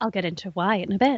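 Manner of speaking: quiet radio announcer voice. Host speaking to a co-host during a quiz: NPR radio voice. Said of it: "Did you just use your, like, N P R voice?".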